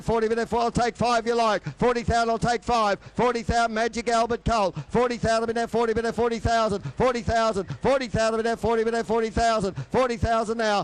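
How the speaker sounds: fast rhythmic auctioneer bid calling; frantic trading floor shouting. Acted. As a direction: rattle off the bids like an auctioneer.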